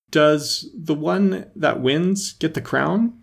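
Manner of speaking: slow, broken-up question while short of breath. A narrator's reading. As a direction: get it out in pieces, winded from running. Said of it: "for the run was putting her quite out of breath".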